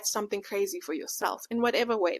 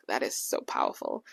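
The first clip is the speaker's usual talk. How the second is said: whisper; 5 dB quieter than usual. Retold or imitated. Awed reaction to God's words.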